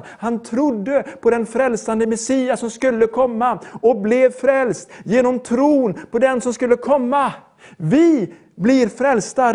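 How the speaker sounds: emphatic, measured sermon delivery; preaching. Acted. Preacher urging listeners to believe and receive, preaching. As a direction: drive each phrase home to the congregation.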